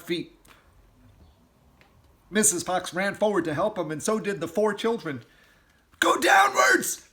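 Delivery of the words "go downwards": high, loud slow command; commanding shout; order. Acted. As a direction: order the family down. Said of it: "ordered Mister Fox".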